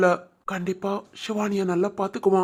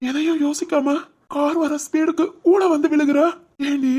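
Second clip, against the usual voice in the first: tearful pleading, higher and louder; crying; 5 semitones higher, 3 dB louder than usual. Acted. Husband weeping over his wife who risked her life. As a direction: sob it out at her, voice breaking. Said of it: "அழாத ராம்".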